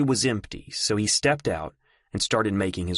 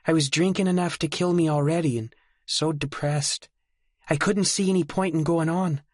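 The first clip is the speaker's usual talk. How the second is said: higher, lightly voiced woman baring her despair; Mary's confession; 8 semitones higher than usual. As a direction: confess the darkest secret gently.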